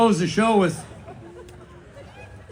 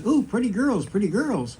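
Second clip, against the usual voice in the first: parrot voice; 3 semitones higher than usual. Acted. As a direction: lightly voice a flirty parrot. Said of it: "The parrot says".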